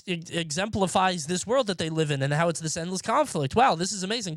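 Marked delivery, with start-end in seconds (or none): 3.5-4.3 mock amazement. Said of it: "That shit was like".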